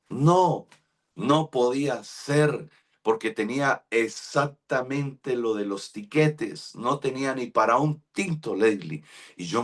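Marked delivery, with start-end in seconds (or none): 0.1-8.5 dismayed disbelief. Retold or imitated. Bus leaves tomorrow, no money.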